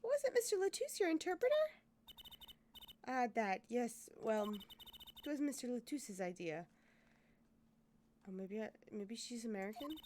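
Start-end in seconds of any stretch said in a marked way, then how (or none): 3.1-6.7 put-on light French accent. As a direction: speak English with a soft French accent. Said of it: "I'm gonna drop that accent".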